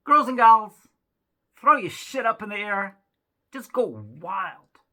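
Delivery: loud hype-man shout to the crowd; hyped performer shout. Retold or imitated. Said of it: "He's like".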